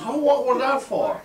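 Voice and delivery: high-pitched, aggrieved question; startled protest. Acted. Joke teller voicing a man punched out of nowhere, high and startled. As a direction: cry out like someone suddenly punched.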